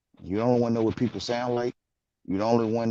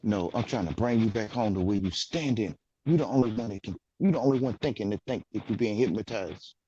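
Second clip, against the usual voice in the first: soft gentle voice; 3 dB quieter than usual. Real, not acted. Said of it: "you using that soft, gentle voice".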